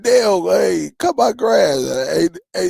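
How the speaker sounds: playful imitated holler at a friend; imitating friend yelling. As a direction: bark it across the yard like a pushy buddy. Friend voiced yelling at him.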